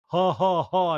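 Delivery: spaced-out mock "ha, ha, ha"; imitated laugh. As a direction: fake a deliberate three-beat laugh. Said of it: "they both just laugh".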